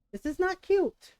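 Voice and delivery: loud, slow stern scold. Real, not acted. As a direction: spell it out, firm and loud. Scolding the dog.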